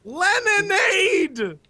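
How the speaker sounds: slow, savoring Leninade; drawn-out announcement. Acted. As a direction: stretch the name out proudly. Relishing the pun name.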